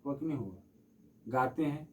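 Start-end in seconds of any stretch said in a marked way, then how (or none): 0.0-0.6 drawn-out calling. Shown as a demonstration. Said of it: "बुला रहे हैं ना".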